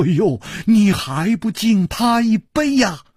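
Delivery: high, loud, thrilled calling out; 兴奋地高声叫; delighted clapping. A narrator's reading. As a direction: gush with glee at the guest. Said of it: "拍着掌说".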